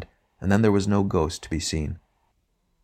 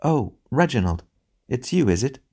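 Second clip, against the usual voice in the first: disappointed; 6 semitones higher than usual. Acted. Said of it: "in a tone of unconcealed disappointment".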